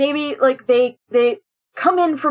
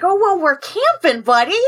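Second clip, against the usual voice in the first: goofy dad; 5 semitones higher than usual. Acted. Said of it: "lean into Goofy".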